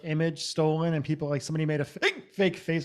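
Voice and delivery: talking through hiccups; hiccupy, interrupted speech. Real, not acted. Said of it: "excuse me, I'm still hiccuping".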